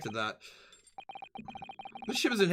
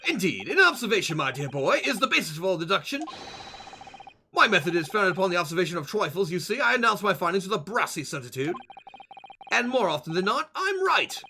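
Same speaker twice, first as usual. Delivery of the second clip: a touch of pompous British sleuth; lightly voiced boastful detective. Detective explains his method to dear boy, lightly pompous. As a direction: lecture lightly as a self-assured detective.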